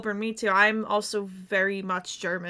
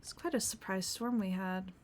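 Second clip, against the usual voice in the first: Shiloh the escaped sailor, quiet and reflective; in-character sailor telling his story; 4 dB quieter than usual. Acted. Roleplay character quietly telling other players his backstory, subdued. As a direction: softly recount the escape, a touch wistful.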